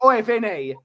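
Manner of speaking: put-on light cockney accent; a hint of cockney, cheeky; mild cockney accent, geezer style. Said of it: "Haaland's gone all cockney".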